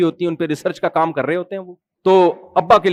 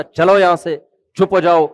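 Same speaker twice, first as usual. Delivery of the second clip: mild mock scolding. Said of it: "اب بیٹے نے جھڑک دیا۔".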